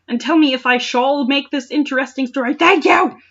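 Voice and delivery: high, bright, overeager thanks; mock cheerful. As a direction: gush it like a kid author. Reading the author's plea in a bright voice.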